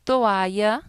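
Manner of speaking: "Toalla" split as to-A-lla; careful teaching "Toalla" in three syllables; vowels in hiatus. Shown as a demonstration. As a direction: separate the o and a of "Toalla". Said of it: "separo as vocales".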